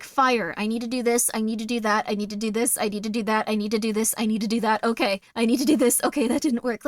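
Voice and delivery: acted task-by-task focus, even and low-key; imitating single-minded problem-solving; crisis focus. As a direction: rattle off steps like an emergency checklist. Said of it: "A real crisis is so much better".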